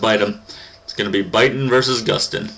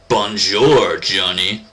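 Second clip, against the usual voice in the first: put-on French accent greeting; 4 dB louder, much slower than usual. Player voicing the rival's greeting, put-on French accent. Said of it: "your French accent".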